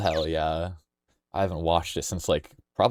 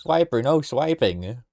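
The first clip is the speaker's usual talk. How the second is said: catchphrase imitation; 5 semitones higher, slower than usual. Quotes a cartoon catchphrase.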